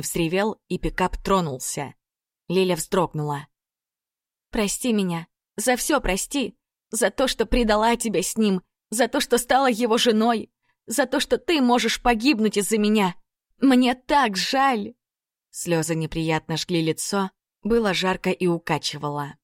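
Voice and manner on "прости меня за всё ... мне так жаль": higher, slowing tearful plea; tearful apology. Acted. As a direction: let it break into sorrow.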